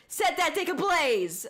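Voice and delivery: lightly imitated English dub actor; mock dub tone. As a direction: try an anime dub line read. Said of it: "I can't do that tone".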